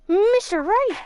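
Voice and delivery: a sudden alarmed cry across the courtroom; urgent shout. Acted. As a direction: call out his name sharply, high. A character calls out in court.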